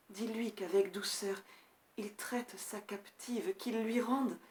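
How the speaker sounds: soft, halting last words; dying prince. Acted. Dying prince entrusts his beloved to a friend, faint and halting. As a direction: speak tenderly with failing strength, pausing often. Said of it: "il ouvre un œil mourant".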